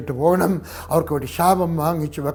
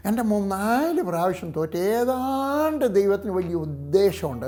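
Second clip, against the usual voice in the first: mock-pious parent; 3 semitones higher, slower than usual. Mimics parent excusing failed son.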